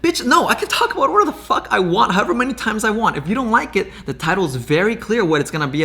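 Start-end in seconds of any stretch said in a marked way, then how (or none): 0.0-3.9 heated retort. Real, not acted. Angry retort to commenters.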